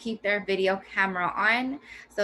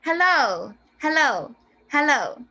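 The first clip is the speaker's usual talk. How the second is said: hello; 5 semitones higher, 6 dB louder, slower than usual. Acted. Teacher greets class loudly.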